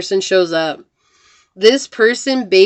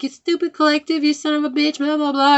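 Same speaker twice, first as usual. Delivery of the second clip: much higher, sneering mock insult; mean voice flipping from sweet to cruel; mock nasty insult; 7 semitones higher than usual. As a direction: spit the insult in a put-on mean voice. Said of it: "the next thing they're like".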